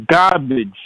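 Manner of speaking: put-on hard Boston accent on GARBAGE. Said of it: "say in his hard Boston accent".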